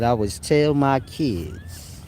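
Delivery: slow mocking read. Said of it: "He said".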